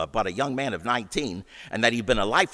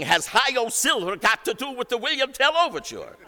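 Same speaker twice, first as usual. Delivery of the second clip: high, louder baffled question; puzzled maestro; 4 dB louder than usual. Retold or imitated. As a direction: ask it baffled, pitched high. Szell puzzled by the heckler's yell.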